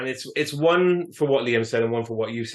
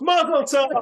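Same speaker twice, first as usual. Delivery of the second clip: much higher, sudden excited exclamation. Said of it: "And he goes".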